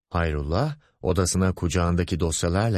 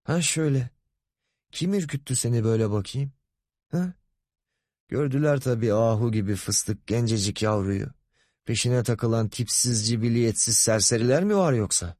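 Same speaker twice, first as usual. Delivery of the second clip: fawning boss, pitched a bit higher; lightly voiced lecherous boss; 4 semitones higher than usual. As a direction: coax the shy secretary with mock concern. Boss cooing over shy secretary. (yılışık, sahte korumacı müdür)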